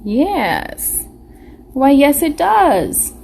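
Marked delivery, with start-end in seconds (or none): 1.7-3.1 mock-surprised, higher "why, yes"; playful why yes. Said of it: "mock surprised answer".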